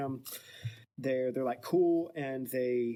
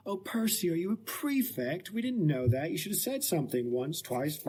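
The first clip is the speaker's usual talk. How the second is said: mocking; 4 semitones higher than usual. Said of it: "the twins make fun of him".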